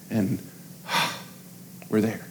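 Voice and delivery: a sighing, relieved hush; sighed whisper. Real, not acted. Pastor whispering the calm moment to the church. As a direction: breathe it out in a whisper. Sigh after calming the child.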